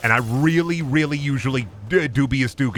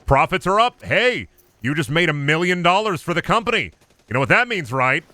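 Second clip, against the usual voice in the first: a cheesy boss building up hype; mock cheery manager; 5 semitones higher than usual. Streamer as retail boss hyping profits, cheery mock voice.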